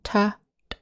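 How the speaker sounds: "T, t" quiet breathy puffs; soft unvoiced t. Shown as a demonstration. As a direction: let the "t" out as air only. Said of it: "the unvoiced and voiced t".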